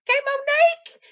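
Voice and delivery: high, loud sarcastic jab; sing-song mocking address; taunting callout. Real, not acted. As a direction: needle her by name.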